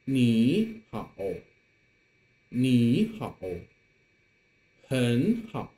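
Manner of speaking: first syllable rising like a second tone; third tone changed to second. Shown as a demonstration. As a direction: model 你 and 很 with rising tone. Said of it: "read the first tone as the second tone".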